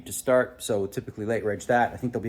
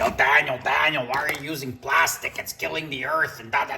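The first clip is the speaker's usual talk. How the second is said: internet critic impression; 4 dB louder than usual. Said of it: "That's my impression of what the internet would sound like".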